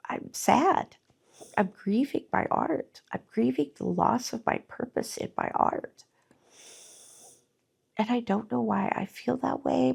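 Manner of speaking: real tears close, voice lifting a little; holding back tears while she talks; teary-eyed. Real, not acted. Artist grieving her lost purpose, teary-eyed. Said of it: "I'm getting teary-eyed right now".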